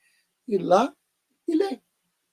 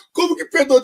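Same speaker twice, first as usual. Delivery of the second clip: incredulous; 11 semitones higher, 6 dB louder than usual. Real, not acted. Repeats her disbelief.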